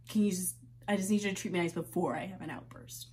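half-laugh through the exhaustion; shaky quiet plea. Acted. Quiet after breakdown.

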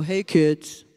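put-on low, dull offhand "Hey, kids."; flat bored greeting. Kids mocking mom's dull greeting to them. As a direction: drop it low like it's a chore. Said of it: "you go".

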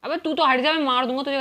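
annoyed gamer's threat; irritated warning. Real, not acted. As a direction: warn them off, voice rising. Warns player blocking him in game.

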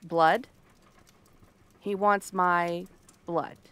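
slow, low-pitched repeat of a demand; slow, deliberate realization. Acted. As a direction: let the words land slowly, one at a time. Taking in a startling demand.

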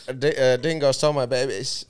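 put-on broad Australian accent; hammed-up Aussie line. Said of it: "My Australian friends hate me when I do this".

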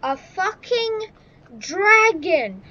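rising to a high, cracking yell; fucking dragon shout. Real, not acted. Gamer facing a dragon, rising panicked shout. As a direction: scream it as the dragon appears.

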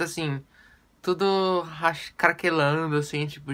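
lips squeezed by hands; speaking with face stretched; fingers pressing cheeks. Real, not acted. Seen 0: fingers press cheeks and lip corners; mouth stays visible, not covered.

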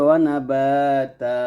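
"ওয়া নাবাতা" slowed, no final n; stopping pronunciation. Shown as a demonstration. Teacher showing the stop, open drawn-out তা. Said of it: "এইখানে যদি আমরা থামি".

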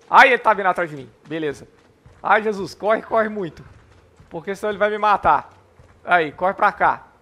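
loud anxious panic while fleeing; being chased. Real, not acted. Mob chasing him, running away.

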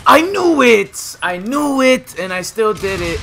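high, loud, drawn-out shout; real high-pitched outburst of exasperation; exasperated yell. Real, not acted. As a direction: wail it in frustration at yourself. Dies as he predicted.

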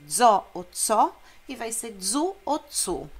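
voiced DZO and DZU against unvoiced TSO and TSU; explosive Z. Shown as a demonstration. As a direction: contrast each dz with a sharp ts. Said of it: "o Z é explosivo". (dzo, tso, dzu, tsu, Z explosivo)

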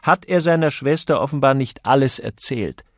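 put-on the young noblewoman chiming in sharply; Lady Mary. A narrator's reading. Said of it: "sagte Lady Mary".

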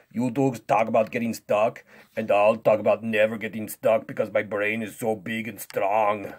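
dismissive strongman voice; boastful strongman. Pretend. Strongman threatens to fire the teachers, cocky and dismissive. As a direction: brag with scornful confidence.

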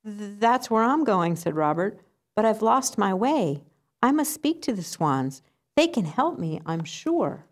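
eager duckling. Acted.

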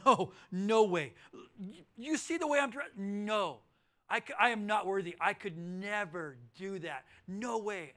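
loud, flustered no way, not worthy; humble refusal. Acted. To the king inviting him, a loud flustered refusal. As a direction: protest that you are unworthy.

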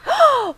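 sudden high startled gasp; a quick frightened intake of breath; sharp gasp. Real, not acted. Startled by game monster.

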